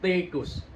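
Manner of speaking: TIKUS said as "tekus"; I becomes E. Shown as a demonstration. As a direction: swap the first vowel of TIKUS for an E. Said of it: "Jadi E".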